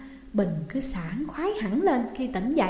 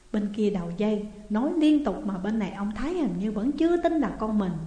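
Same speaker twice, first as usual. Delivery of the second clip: ordinary delivery, nothing marked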